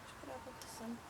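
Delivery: soft hushed whisper. Real, not acted. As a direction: whisper so you don't spoil the recording. Whisper before listening back.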